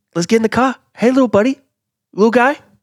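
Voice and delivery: put-on heavy Boston accent, high-pitched and loud. You are doing a voice for others to guess who it is, a Mark Wahlberg impression. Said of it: "Is it Boston or country?".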